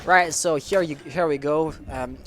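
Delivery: measured esports commentary, searching for words; English play-by-play. Acted. French caster calling a round in English for the chat, measured. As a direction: narrate the round calmly, thinking aloud.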